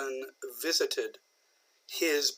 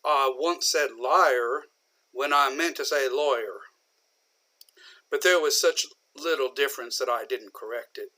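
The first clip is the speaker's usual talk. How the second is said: light drawl. Retold or imitated. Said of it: "Lincoln talked with a bit of a drawl".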